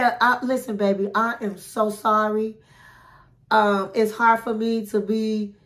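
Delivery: a gentle, heartfelt sorry; sincere apology. Shown as a demonstration. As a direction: make her believe you're sorry. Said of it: "he should just say".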